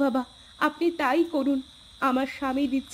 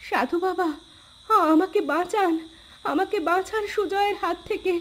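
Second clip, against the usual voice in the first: frightened plea; 4 semitones higher than usual. Acted. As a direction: call out to be saved. Wife begs saint for rescue. (ভয়ে চিৎকার করে সাহায্য চাওয়া)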